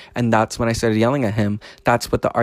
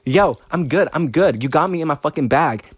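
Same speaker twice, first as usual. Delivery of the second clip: higher, pumped, grinning through it; riding a wave of hype, fired up; hyped up; 4 semitones higher than usual. Real, not acted. Laughing, hyped up.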